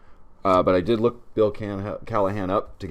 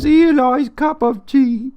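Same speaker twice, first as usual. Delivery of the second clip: laughing epitaph; 9 dB louder, slower than usual. Pretend. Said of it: "It says".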